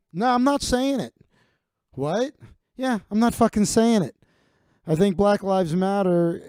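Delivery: lightly voiced smug refusal, settling into a lecture; mock Kimmel dismissing the demand; defiant refusal. Kimmel refuses in acted scene.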